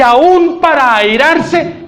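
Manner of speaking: drawn out, very slow; slow motion. Shown as a demonstration. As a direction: stretch every word slowly. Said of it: "en cámara lenta".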